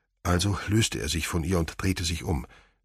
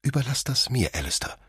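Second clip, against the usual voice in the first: a higher, sharp command; 7 semitones higher than usual. Acted. Mother sharply telling Alistair to leave it to her. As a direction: cut him off sharply. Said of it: "sagte seine Mutter in scharfem Ton".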